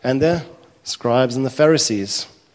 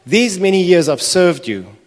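put-on older son protesting; 4 semitones higher, 5 dB louder than usual. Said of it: "his father, and he said".

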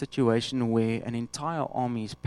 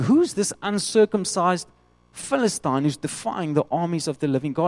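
indignant question; 4 semitones higher, 3 dB louder than usual. Retold or imitated. Young David asking the army, indignant and outraged. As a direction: demand who dares defy God.

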